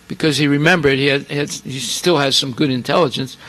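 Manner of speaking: ordinary delivery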